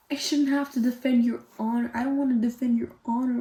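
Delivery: rushed mock complaint; imitated complaint. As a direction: rattle it off as his grumbling excuse. Imitating his complaint to her.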